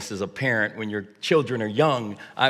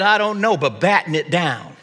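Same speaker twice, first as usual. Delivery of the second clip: higher, louder mock captain, laughing at the end; captain's answer; 5 semitones higher, 5 dB louder than usual. Dad answers son as the captain, loud and laughing. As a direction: bluff your way as the captain. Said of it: "And I said".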